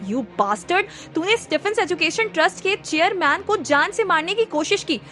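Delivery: mild angry outburst; shouting. Acted. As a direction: lay into him, building to the demand. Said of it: "जोर से चीखा".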